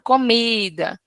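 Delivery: comida with the middle syllable mi held longest and strongest; teacher spelling out the stressed syllable mi in comida. Shown as a demonstration. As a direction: hit the mi in comida clearly. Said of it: "Mi vai ser a sílaba forte".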